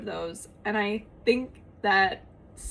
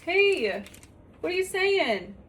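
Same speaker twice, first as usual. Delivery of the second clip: pet talk; 8 semitones higher, slower than usual. Real, not acted. Talking to pet, baby voice.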